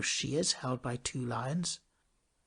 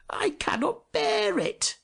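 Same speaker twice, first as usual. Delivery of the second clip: soldier's whisper; slower than usual. A narrator's reading. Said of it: "said the pewter soldier".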